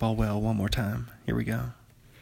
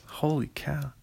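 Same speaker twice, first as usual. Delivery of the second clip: awed whisper; 3 semitones higher, 4 dB quieter than usual. Real, not acted. Awed at sandwich.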